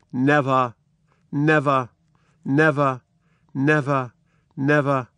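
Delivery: lightly voiced broken father; Lear crying out. Lear mourning his hanged daughter, mildly anguished. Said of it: "Lear cries out".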